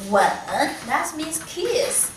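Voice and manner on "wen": "Wen" in third tone, dipping and rising. Shown as a demonstration. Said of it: "And here, third tone".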